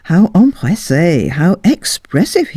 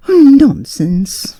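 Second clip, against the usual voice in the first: coy; 7 semitones higher, slower than usual. A narrator's reading. Lady flirting.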